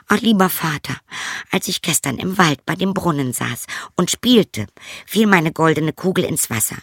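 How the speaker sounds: put-on a frightened girl answering; princess. Princess answering her father, high and frightened.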